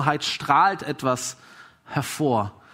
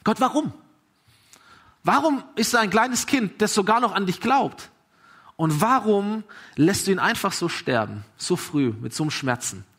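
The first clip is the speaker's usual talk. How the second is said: raised, pleading cry to God; a desperate prayer, pitched up; 4 semitones higher than usual. Retold or imitated. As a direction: ask God why, pleading and higher. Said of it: "spricht wie ein Gebet".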